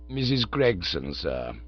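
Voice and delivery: calm, unruffled manservant; Jeeves the valet. Acted. Jeeves announces caller.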